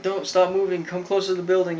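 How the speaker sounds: acted-out plea to hold still; mock urgency. Joey holding up his falling friend, mock urgent warning.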